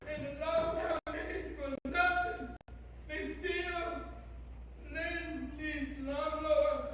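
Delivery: exasperated, hitting back at the council; angry evicted tenant turning on the council; fed up. Real, not acted. Tenant angrily addresses council.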